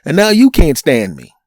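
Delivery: high, pleading mock outrage; exasperated retold plea. Telling the girlfriend he charmed her family, high and exasperated. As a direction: complain like you did everything right. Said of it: "I'm going".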